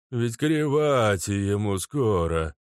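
slow, grumbling guard voice. Acted. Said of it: "начал ворчать охранник".

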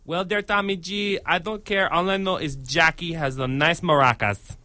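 lightly voiced foreign oddball; Fez. Guest as sitcom character brushes off the host, soft put-on voice. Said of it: "it's Fez here".

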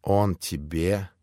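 a mild hysterical gasp, slowed; stunned disbelief rising; understated hysterics; hysterical cry. Acted. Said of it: "истерически вскричала Грушенька".

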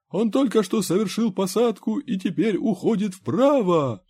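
high, loud alarm call; frantic yelling. A narrator's reading. Talking comic book calling out a landing, high frantic yell. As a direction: shout it like an action-comic lookout. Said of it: "вопль с открытой страницы звукокнижки".

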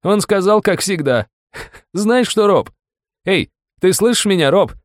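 high, loud mocking through laughter; laughing mockery. A narrator's reading. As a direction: taunt him between bursts of laughter. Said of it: "покатился со смеху".

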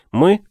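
"Мы" punched high and loud; stress on Мы. Acted. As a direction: hit "Мы" hard, set apart by a pause. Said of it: "я подчеркнул голосом последнее слово".

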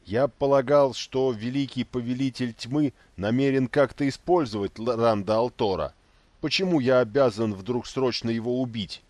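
high, loud, urgent pleading; agitated protest. Acted. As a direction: push back, alarmed and insistent. Inquisitor protests in alarm.

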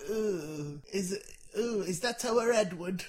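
put-on old granddad voice. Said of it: "I'll be your granddad".

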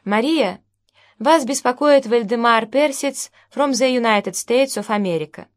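put-on Russian with an English accent. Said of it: "русская речь с английским акцентом".

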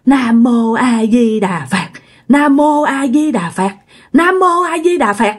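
slow, drawn-out chant climbing with each repeat; mocking ghostly mimicry. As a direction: stretch every syllable to mock the prayer. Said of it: "người này nhái lại mà nhái kiểu vậy đó".

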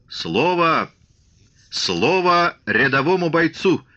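high, drawn-out strained demand; breathless croak. A narrator's reading. Shtokman demanding to speak to the crowd, high winded croak. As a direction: demand the floor, struggling for breath. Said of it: "прохрипел Штокман, едва переводя дух".

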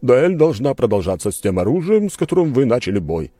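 duel steward. A narrator's reading. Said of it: "сказал он".

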